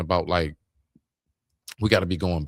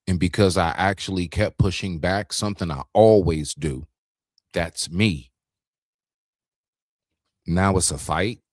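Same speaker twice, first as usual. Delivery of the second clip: ordinary talk, nothing marked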